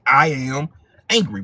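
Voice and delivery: firm angry statement. Shown as a demonstration. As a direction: own the anger as you say it. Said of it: "You say".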